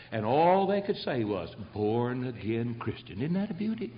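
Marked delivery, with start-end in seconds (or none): 1.7-3.2 solemn reverent. Acted. Solemn quoted epitaph.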